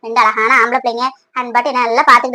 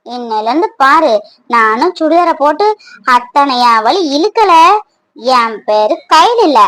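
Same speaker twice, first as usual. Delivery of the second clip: lightly voiced young village girl, teasing; slow, sing-song boasting; playful young girl; 2 semitones higher, slower than usual. S0 switches to Maha figure.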